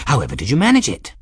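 put-on fast, eager old man; excited old man. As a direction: rattle it off like a delighted old eccentric. Eccentric old man Ferris.

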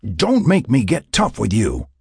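drawn-out, forceful warning; threatening. A narrator's reading. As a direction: warn her with measured menace. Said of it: "he threatened".

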